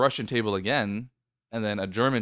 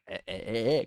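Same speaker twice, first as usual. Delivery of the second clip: laughing; 3 dB quieter than usual. Retold or imitated. Awkward retreat after whisper.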